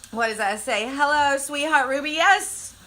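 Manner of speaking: quiet, burning mouth; tongue on fire. Real, not acted. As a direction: speak through a scorched tongue. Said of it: "Okay, I'm talking".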